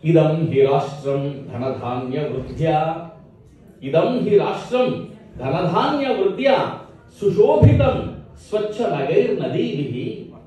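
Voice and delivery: lilting, measured chant of verse; Sanskrit verse recitation. Acted. Poet praising Bharat to a gathering, chanted recitation. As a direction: recite with drawn-out line endings.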